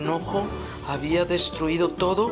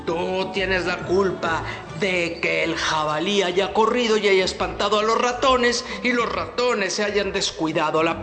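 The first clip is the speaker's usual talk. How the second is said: angry bear. Acted. Bear accuses the fox.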